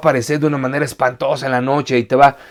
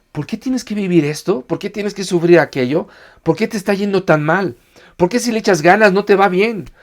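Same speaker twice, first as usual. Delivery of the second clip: Satan whispering doubts; 4 semitones higher than usual. Retold or imitated. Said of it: "Satanás hablándote al oído y diciendo".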